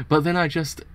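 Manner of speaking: stumbling into a laugh while reading; real laugh breaking the read; laughing mid-line. Real, not acted. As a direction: start the line, crack up before finishing.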